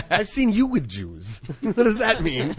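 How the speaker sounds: laughing. Real, not acted. Laughing while repeating the jab.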